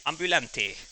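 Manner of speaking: "ambulante" with a light Spanish accent; Spanish pronunciation. Shown as a demonstration. Streamer listing the word in Spanish, light accent.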